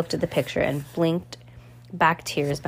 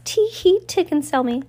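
much higher, louder squealing tee-hee; shrieking giggle; 10 semitones higher, 4 dB louder than usual. A narrator's reading. Villain walking behind his girlfriend, shrieking giggle. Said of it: "Count Olaf shrieked".

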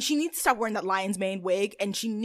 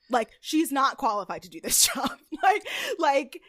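laughing rant; 3 semitones higher than usual. Real, not acted. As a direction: laugh while shouting. Ranting, laughing and shouting.

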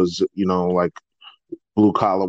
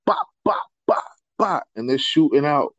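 higher, popping "bop" sounds; spaced-out mock gunfire; imitated gunshots; 7 semitones higher than usual. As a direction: mimic shots going off one by one. Imitating gunshots in retold video.

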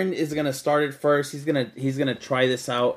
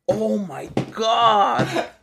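pained moan; 5 semitones higher, much slower than usual. Real, not acted.

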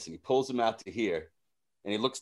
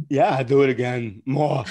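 eager request; 5 dB louder than usual. Retold or imitated. Acting eager Walken.

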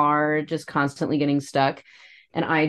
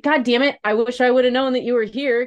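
retold exasperation; 6 semitones higher, 4 dB louder, faster than usual. Retells frustration at the landlord.

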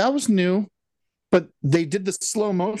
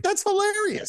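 mock deadpan reaction; 3 dB quieter than usual. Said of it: "I'm like".

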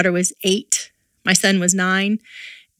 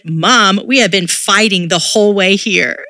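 daughter calling out mom, a touch louder; a hint of a blunt eight-year-old, loud; 4 dB louder than usual. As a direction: filha falando alto e direta com a mãe. Daughter voiced in story.

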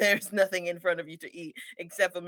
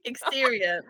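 screenplay scene heading; slower than usual. Acted. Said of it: "it's a screenplay".

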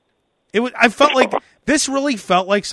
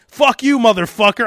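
weak tough guy threat; 4 semitones higher, 5 dB louder than usual. Shown as a demonstration. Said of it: "I don't even sound tough".

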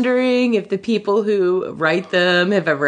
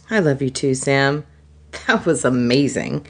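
tender; 6 semitones lower than usual. Acted. Tender Frodo line, lowered.

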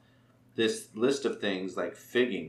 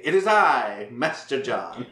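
grand entrance; 6 dB louder, slower than usual. Retold or imitated. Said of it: "I'm just gonna get up there and say".

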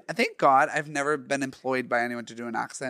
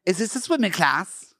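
amateur Cockney question; Cockney accent; 4 semitones higher than usual. Pretend. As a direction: ask in put-on Cockney. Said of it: "the accent is Cockney".

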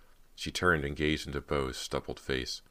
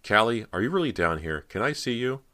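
high, loud, pleading call; 8 semitones higher, 6 dB louder than usual. A narrator's reading. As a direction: call out to someone hidden. Calling to unseen sister.

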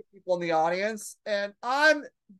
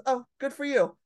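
lightly imitated dismissive comic, raised pitch; Mooney fashion; 4 semitones higher than usual. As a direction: brush off the new waitress, mildly imitating him. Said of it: "in the Mooney fashion".

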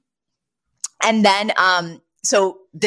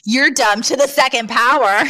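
put-on higher-pitched kids' playground jeer; schoolyard taunt; 5 semitones higher, 4 dB louder than usual. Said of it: "was the schoolyard taunt where it's like".

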